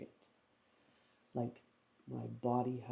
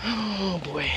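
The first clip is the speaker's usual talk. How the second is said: disappointed whisper; 5 semitones higher, 13 dB louder than usual. Real, not acted. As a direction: whisper it to yourself, deflated. Festival over, boats gone.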